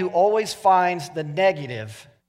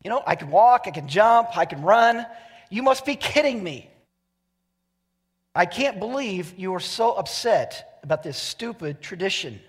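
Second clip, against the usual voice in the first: incredulous healed man; 4 semitones higher than usual. Pretend. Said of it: "You'd be like".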